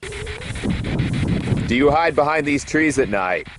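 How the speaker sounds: slow, distant question to the spirits, as if recorded outdoors; slow field-recorded question. Real, not acted. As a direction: ask it slowly into the dark graveyard. Asking spirits in the graveyard.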